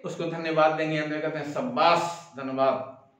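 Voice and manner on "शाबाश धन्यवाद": teacher praising a pupil, a touch softer; gently pleased "शाबाश", lightly voiced; a hint of a proud teacher telling a pupil to sit; pleased praise. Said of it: "खुश होकर के".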